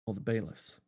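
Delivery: soft, subdued recounting of a dream; haunted narration. Acted. Dreamer recounts finding the pistol, hushed and haunted. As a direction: recall it quietly, as if reliving it.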